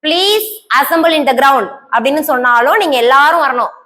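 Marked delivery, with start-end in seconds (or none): 0.0-1.7 each word drawn out very slowly for the class; slow dictation. Shown as a demonstration. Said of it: "உங்க மொத்த பேரையும் பார்த்து". (மிக மெதுவாக டிக்டேஷன் சொல்வது)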